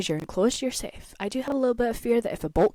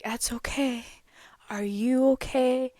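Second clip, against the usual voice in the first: chill, mellow guy; 3 semitones higher than usual. Retold or imitated. Ride worker soothing shaken riders who fell out, chill and mellow. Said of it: "He was so chill, so mellow".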